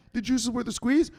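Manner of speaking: high, not yet loud recital; cowed repeat. Acted. Victim made to recite the motto, cowed and high. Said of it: "Say it louder".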